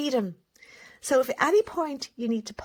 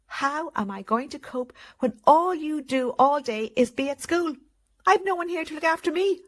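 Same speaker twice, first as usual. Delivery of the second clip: self-pitying parent; 4 semitones higher, 3 dB louder than usual. Retold or imitated. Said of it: "And here they are".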